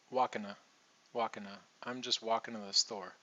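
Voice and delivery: "walking to" said as "walkin' a"; reduced to. Shown as a demonstration. Teacher repeating walking to with a reduced to. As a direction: reduce to into a schwa. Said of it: "same thing here".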